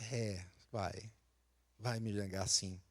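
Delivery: low, soft, calmly resigned; quiet knowing Jesus. Retold or imitated. Jesus gently tells Peter he will deny him, low and soft. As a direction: murmur it as if you already know.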